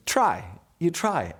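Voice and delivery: high, slow, drawn-out urging; goading shopkeeper. Retold or imitated. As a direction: imitate a shopkeeper egging on a customer. Shopkeeper goads him to speak Italian.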